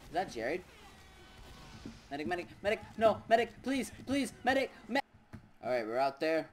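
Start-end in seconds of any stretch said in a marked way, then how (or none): 2.1-5.0 man down shout. Real, not acted. Dying, begging for medic.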